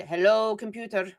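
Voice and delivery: lightly attempted Scottish accent; faintly Scottish movie-quote voice; bad Scottish accent. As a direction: do a poor, half-hearted Scottish accent. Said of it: "in their best or worst Scottish accent said".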